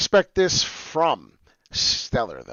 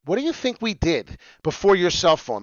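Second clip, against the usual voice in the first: ordinary talk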